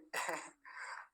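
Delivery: breathy little laugh; short giggle. Real, not acted. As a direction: give a quiet chuckle. Giggles again after repeated word.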